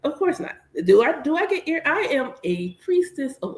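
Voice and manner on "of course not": high sassy no. Real, not acted. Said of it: "rhetorical answer".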